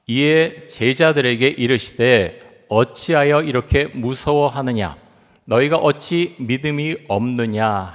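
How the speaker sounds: slow, measured scripture recitation; scripture reading. Shown as a demonstration. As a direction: read the verse aloud slowly and solemnly. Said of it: "우리 같이 한번 읽겠습니다".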